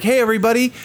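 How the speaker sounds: hyped-up stage announcement, pitch climbing; excited announcer. Acted. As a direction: build excitement before the act comes on. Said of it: "It's like they're excited".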